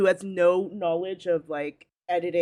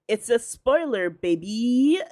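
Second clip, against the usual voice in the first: imitating Ali; 5 semitones higher, 3 dB louder, slower than usual. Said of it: "It's just Ali saying".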